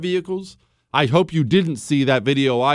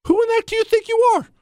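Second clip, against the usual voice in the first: much higher, fast, indignant; pitched-up incredulous outrage; outraged yell; faster than usual. Real, not acted. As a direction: demand an answer, furious. Repeats challenge, escalated.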